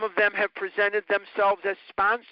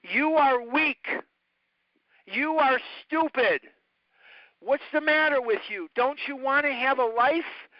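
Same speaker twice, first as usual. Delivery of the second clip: higher, scolding mock yell at a child; imitating scolding adults; 6 semitones higher than usual. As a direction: play the harsh doctor berating a fat little boy. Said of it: "What they said to me was".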